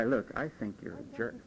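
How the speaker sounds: calm telling. Shown as a demonstration. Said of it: "Why can't you just tell a guy".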